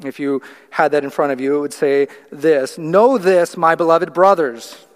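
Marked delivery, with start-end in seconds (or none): 2.8-4.8 louder, emphatic "Know this" with a falling "brothers"; exclamation. Shown as a demonstration. Preacher reading the New American Standard, emphatic and loud. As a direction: read it as if it ends in an exclamation mark. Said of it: "Exclamation mark".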